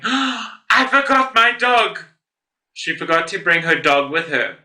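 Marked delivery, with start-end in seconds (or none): 0.0-2.0 high, slow mock-horrified exclamation; gasped realization. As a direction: act out a sudden, dismayed realization. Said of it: "before gasping loudly and saying".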